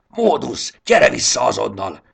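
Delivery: loud, high call across the meadow; shouting. A narrator's reading. Triceps calling Módusz back, shouting. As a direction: yell after him to come back. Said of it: "kiáltott rá Triceps".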